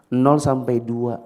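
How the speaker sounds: slow and deliberate, each word spaced out; slow emphasis. Shown as a demonstration. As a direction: spell out "Nol sampai dua" slowly, stressing nol. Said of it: "Coba ulang". (ucapkan pelan dan tegas)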